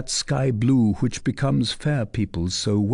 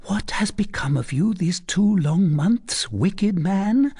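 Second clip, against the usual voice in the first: caressing reproach; 9 semitones higher than usual. A narrator's reading. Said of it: "addressing her caressing reproaches to him in a low voice".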